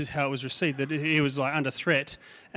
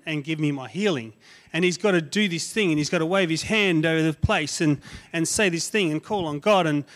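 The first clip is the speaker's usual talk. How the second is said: angry Naaman; 3 semitones higher than usual. Acted. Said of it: "Naaman was angry".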